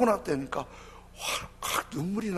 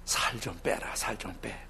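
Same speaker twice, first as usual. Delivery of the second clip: muttered dad jab; 6 semitones lower, 8 dB quieter than usual. Retold or imitated. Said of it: "대놓고".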